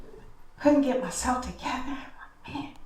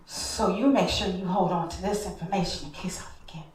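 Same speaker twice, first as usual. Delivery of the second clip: whispered confiding; 4 semitones lower, 6 dB quieter, faster than usual. Retold or imitated. Father confiding plan.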